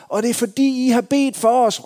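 imitating the neighbors calling out; neighbors shouting out. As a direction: shout your thanks out through the glass. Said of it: "råbte de ud igennem vinduet".

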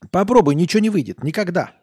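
put-on loud, high drunken warning; a tipsy coder insisting; drunk insistence. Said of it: "Он пьяно посмотрел".

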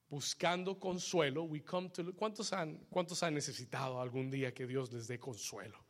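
soft, measured pastoral tone; solemn preaching. Real, not acted. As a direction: bring the sermon down to a quiet reflection.

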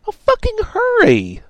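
very high loud frantic scream. A narrator's reading. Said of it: "Radix screamed".

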